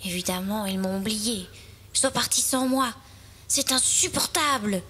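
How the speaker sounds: grumble, building to mild indignation; understated anger. Acted. Little fir left behind by the others, mildly angry. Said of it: "dit-il rouge de colère".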